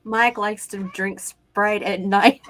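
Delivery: slow, deliberate attempt at the phrase; slow careful try. Shown as a demonstration. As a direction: work through each word slowly. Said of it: "all you have to do is say".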